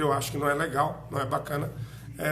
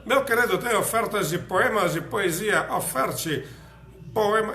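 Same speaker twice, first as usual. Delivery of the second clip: louder, higher mock hawker's pitch; playful vendor sales call; street offers announcer; 4 semitones higher, 5 dB louder than usual. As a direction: call out the offers like a passing sound car. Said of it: "falando das ofertas, eu falando".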